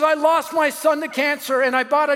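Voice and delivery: acted anguish, drawing out the last outburst; tearful grieving. Grieving mother explaining her loss to a stranger, imitated tearful lament. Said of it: "she burst in tears".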